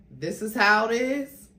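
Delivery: anger breaking through; creeping anger. Acted. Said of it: "Sean's anger was creeping in".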